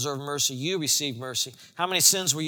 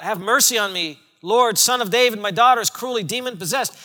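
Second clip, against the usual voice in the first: crying out; 3 semitones higher, 4 dB louder than usual. Acted. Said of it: "cried out".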